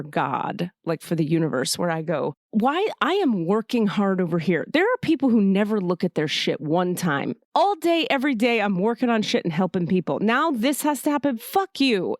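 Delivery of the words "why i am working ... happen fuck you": raised, bitter complaint aimed at God; resentful rant at God. Retold or imitated. Ranting up at God over her twisted ankle, resentful. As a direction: vent the grievance hard, building to a curse. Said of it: "And I'm mad at God".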